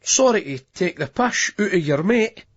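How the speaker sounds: semi-apologetic. Acted. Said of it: "semi-apologetically".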